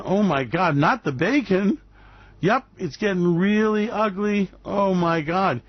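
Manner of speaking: slow, hammed-up dismay over the bacon; mock horror. Host mocking bacon lovers with fake dismay. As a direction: pretend to be devastated.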